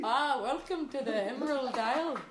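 put-on Irish accent. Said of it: "I don't know what that was".

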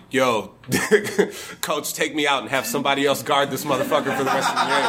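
quick, giggling plea to the coach; laughing mock plea. Rip Hamilton begging his coach, laughing and rushed. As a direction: laugh through the teammate's exasperated request.

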